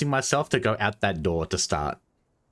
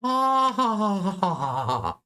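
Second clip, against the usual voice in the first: high burst of laughter fading down; laughing; 8 semitones higher, slower than usual. Real, not acted. Reacts to sour drink.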